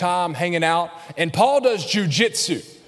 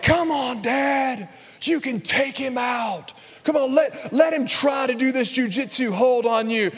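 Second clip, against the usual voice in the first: lightly voiced children, pitched up; imitated urging kids; 4 semitones higher than usual. Kids goading dad into a jujitsu hold, imitated urging. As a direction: egg Dad on like eager kids.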